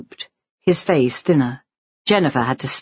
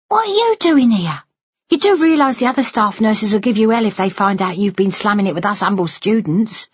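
high-pitched, playful scolding; cheeky student nurse, pitched up; teasing friend; 7 semitones higher than usual. Acted. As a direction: tease your nurse friend in mock warning.

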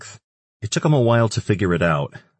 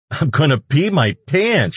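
high, louder laughing wail; wailing with laughter; 9 semitones higher, 5 dB louder than usual. A narrator's reading. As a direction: wail it through helpless laughter. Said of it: "she wailed".

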